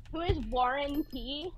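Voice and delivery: slow, mock-clueless question; playing dumb. Pretending to be dumb for a scam caller, playing dumb. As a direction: feign total ignorance of the name. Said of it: "I'm pretending to be dumb".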